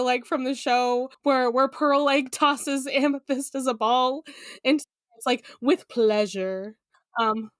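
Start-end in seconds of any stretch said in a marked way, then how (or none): 5.6-6.8 slow, slightly low mimicry; slow imitated relish; savoring character quote. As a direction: draw it out slowly, relishing it.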